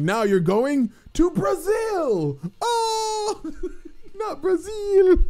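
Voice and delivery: cracking up mid-line; laughing so hard the words wobble. Real, not acted. Joking about getting sent to Brazil, laughing.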